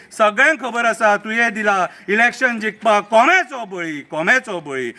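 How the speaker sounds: measured satirical verse recital; mocking political poem read aloud; poem recitation. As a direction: recite it as rhythmic verse, letting the line endings fall.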